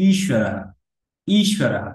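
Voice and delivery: ঈশ্বরহ with a held, pressed first vowel; long i. Shown as a demonstration. Teacher contrasting short and long vowels, ঈশ্বরহ with long i. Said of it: "এটাকে একটু দীর্ঘ করে".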